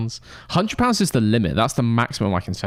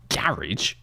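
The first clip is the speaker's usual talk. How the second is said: whisper; 4 semitones lower, 5 dB quieter than usual. Acted. Whispered answer to which cooler.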